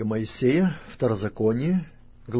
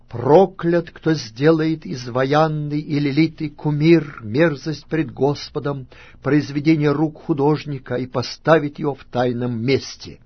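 loud proclamation; 4 semitones higher, 8 dB louder than usual. A narrator's reading. Levites pronouncing curses to all the Israelites, loud proclamation. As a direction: proclaim the curse loudly, drawing out the words. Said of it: "скажут всем израильтянам громким голосом".

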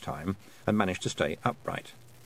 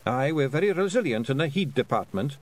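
Scottish pixie voice; 5 semitones higher than usual. Acted. Rob Anybody replies.

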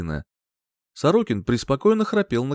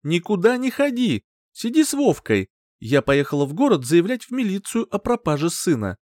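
firm instruction; 8 semitones higher, 3 dB louder than usual. A narrator's reading. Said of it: "наказала Сорокину".

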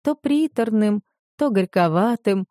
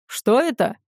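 startled cry; 2 semitones higher than usual. Acted. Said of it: "вскрикнул староста деревни".

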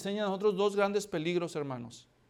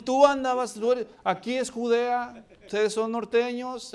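loud accusation; 6 semitones higher, 6 dB louder than usual. Acted. Bystanders accuse.

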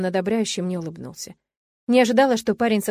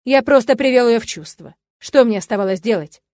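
angry self-justification; 3 semitones higher, 8 dB louder than usual. A narrator's reading. Father defends slapping wife.

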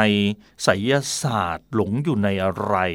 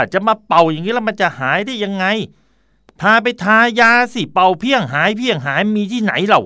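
put-on much higher, louder child's voice, indignant; scolding child; 11 semitones higher, 5 dB louder than usual. Blind six-year-old scolding his teacher, indignant and high. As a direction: play a six-year-old telling off the grown-up. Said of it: "เด็กหกขวบกว่ากลับบอกว่า".

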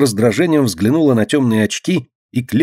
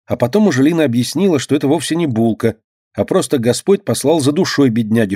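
ordinary delivery

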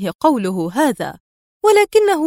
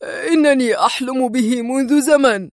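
keen, lifted delivery; great enthusiasm; 3 semitones higher than usual. A narrator's reading. The man jumping up from his seat, enthusiastic. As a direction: let the eagerness show. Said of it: "مستطردا في حماس بالغ".

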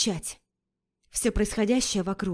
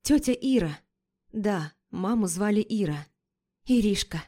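plain reading voice

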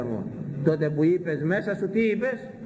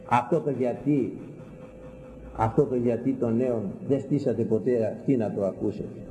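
ordinary delivery

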